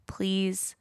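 breathy whispered plea, unvoiced; whispered please. Real, not acted. Host begging listeners to join Patreon, whispered. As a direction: whisper it like a small secret favour.

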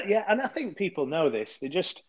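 coughing through water down the wrong way; talking while half choking on water; choking on a drink. Real, not acted. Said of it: "choking on my water".

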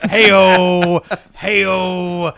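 loud rimshot-style comedian; milk the punchline like a stand-up; brash vaudeville comic. Acted. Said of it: "I'll be here all week".

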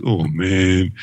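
playful groan of letdown; hammed-up, drawn-out dismay; mock disappointment. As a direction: sag like a let-down crowd. Mock letdown in alternating list.

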